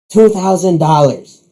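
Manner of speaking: high, drawn-out theatrical groan; reluctant groaning bid. Acted. Rook raises the bet as rival leaves, groaning. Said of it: "Rook groans and says".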